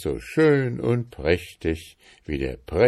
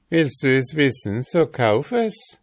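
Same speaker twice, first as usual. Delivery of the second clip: high, louder, pert reply; teasing old woman; 7 semitones higher, 5 dB louder than usual. A narrator's reading. Old woman answers the curious boy, pert high voice. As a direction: toss back the challenge as an old woman.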